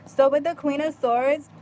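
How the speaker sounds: slow words while chewing gum. Real, not acted. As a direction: say it round a piece of gum. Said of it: "I'm chewing gum".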